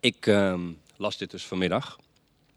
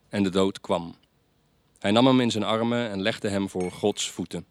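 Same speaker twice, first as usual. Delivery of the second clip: plain reading voice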